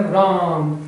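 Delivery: राम with a long held आ; drawn-out call of राम; prolonged vowel. Shown as a demonstration. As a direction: stretch राम as if calling someone. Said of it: "क्या बोला मैंने?".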